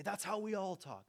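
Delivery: mock excuse. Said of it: "I could say".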